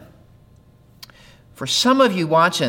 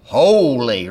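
lower, solemn churchy "Holy," drawn out; churchy intoned word; 5 semitones lower than usual. Shown as a demonstration. Pastor tells viewers to say it aloud, intoned "Holy," churchy.

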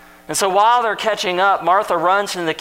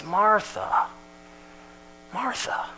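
gentle calling; 4 semitones higher, 6 dB quieter, slower than usual. Retold or imitated. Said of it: "with compassion and kindness".

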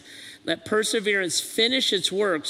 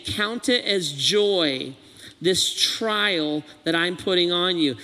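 coach; slower than usual. Acted. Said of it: "the coach saying".

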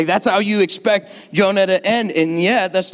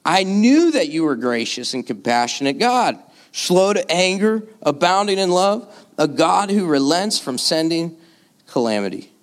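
sarcastic frustration. Acted. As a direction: list God's virtues like a grievance. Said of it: "Can you hear Jonah in his sarcastic undertones?".

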